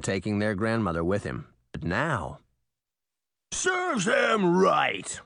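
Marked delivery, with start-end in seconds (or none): 3.5-5.2 slow, booming furious roar. Acted. Titan the raging mirror roaring at the trapped villain. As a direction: bellow it out with rage. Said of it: "Titan roared".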